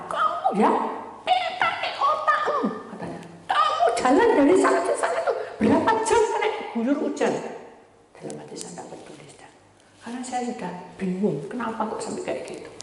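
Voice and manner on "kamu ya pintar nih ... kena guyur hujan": high, mock nagging mother; scolding mother. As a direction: play mom fussing over her soaked child.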